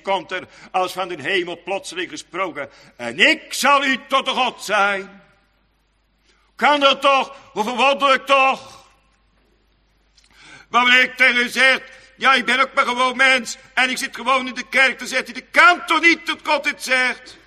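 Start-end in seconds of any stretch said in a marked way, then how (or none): 3.0-5.2 louder, slow ringing proclamation; proclaiming. Acted. Preacher proclaims God's promise to the church, loud and slow. 6.6-17.4 louder and higher, impassioned; fervent preaching. Acted. Preacher marvels at God's promise to the congregation, impassioned.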